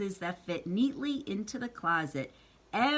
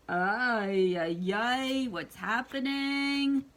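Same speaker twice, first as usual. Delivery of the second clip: dismayed papa; slower than usual. Acted. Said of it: "He's saying".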